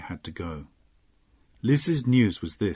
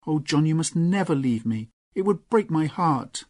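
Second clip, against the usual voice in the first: put-on higher heartfelt young woman's voice; Lorna, earnest; 5 semitones higher than usual. Lorna to John, higher heartfelt plea. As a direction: pour out her devotion.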